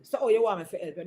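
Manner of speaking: quick, grudging sarcastic offer of help; with an attitude. Shown as a demonstration. Annoyed spouse offering help grudgingly, fast and sarcastic. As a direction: toss it off like helping is a bother. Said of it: "don't say it with an attitude".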